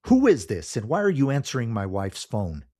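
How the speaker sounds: alarmed. Acted. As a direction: call it out high and loud. Husband alarmed on the phone.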